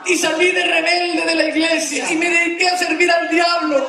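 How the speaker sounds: a touch of fervent pleading, as the penitent; repentant chief. Retold or imitated. Weeping chief confesses, voiced in story.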